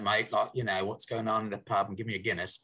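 quick, casual Cockney pub patter; chatty mock-Cockney accent. Shown as a demonstration. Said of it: "a Cockney accent".

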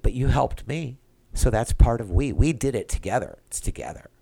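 choked up, fading to a broken breath; real tears catching in the throat; welled up. Real, not acted. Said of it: "how I got completely welled up and stuffed up".

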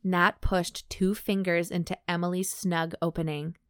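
measured, even audiobook read; composed narrator, pausing between phrases; story narration. A narrator's reading. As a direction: read the story aloud with clear, careful phrasing. Reads erotic fiction aloud.

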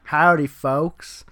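very slow, stretched Southern Georgia drawl; hammed-up white Georgia guy, dragging every word; a lightly done Southern drawl, drawn out slowly. Shown as a demonstration. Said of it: "give me your Georgia accent real quick".

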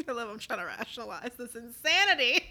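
talking through laughter, sped up; laughing. Real, not acted. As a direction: crack up mid-sentence, loud and quick. Cracks up at own reasoning.

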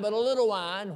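little weighted at the end; but a little wine, little leaned on; stress on little. Shown as a demonstration. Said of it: "I emphasize little, underline little".

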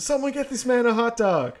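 high, loud laughing call-out; mock call. Viewer joking at the screen, loud mock call. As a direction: shout it half laughing. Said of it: "And I was like".

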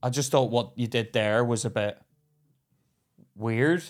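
low, quiet, measured reasoning; retold calm talking-down, voice dropped; placating. Driver to man who didn't want the confrontation, placating.

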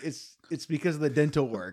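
slightly slurred, numb mouth; numb from the dentist. Real, not acted. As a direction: talk through a numb mouth after dental work. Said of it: "my mouth is still numb".

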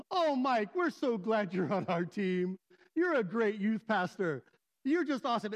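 hammed-up gushing greeting; mock-friendly imitation of a flatterer; effusive public praise. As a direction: gush with showy, drawn-out compliments. Board member's effusive public greeting.

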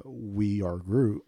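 slow gentle Groot voice; Groot's line. Retold or imitated. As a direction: drag out each word like Groot. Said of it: "And Groot says".

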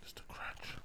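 ASMR whisper. Pretend. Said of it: "ASMR bit".

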